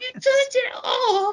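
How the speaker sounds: very high, slow, drawn-out dramatic delivery. Quoting a favourite line, imitating Ricky saying it dramatically.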